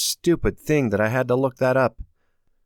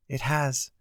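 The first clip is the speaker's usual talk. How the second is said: thick voice; 4 semitones higher, 6 dB quieter than usual. A narrator's reading. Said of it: "Her voice sounded thick".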